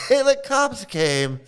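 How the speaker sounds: high, slow laughing repeat; cracking up over the punchline. Real, not acted. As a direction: laugh out the words very slowly. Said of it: "laughs, repeats".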